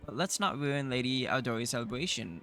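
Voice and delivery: lightly voiced haughty noble; arrogant baron voice. Needling the new baron, a lightly voiced haughty noble. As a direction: sneer down at the upstart.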